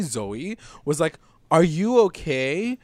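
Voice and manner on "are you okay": mock worried Zoe. Zoe worried as Coco chokes.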